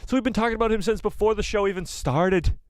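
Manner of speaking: accidental hint of an Irish accent. Real, not acted. Host recapping the clone assassin talk, slipping into Irish accent. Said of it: "starting to get a, a, an Irish accent".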